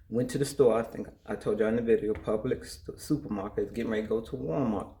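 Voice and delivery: talking with gum in mouth; words round a wad of gum; chewing gum. Real, not acted. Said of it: "I had that gum in my mouth".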